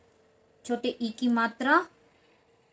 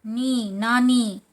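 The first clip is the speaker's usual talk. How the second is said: slow sounding out; 4 dB louder, much slower than usual. Shown as a demonstration. Teacher sounds out syllables slowly.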